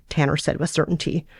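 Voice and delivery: ordinary talk, nothing marked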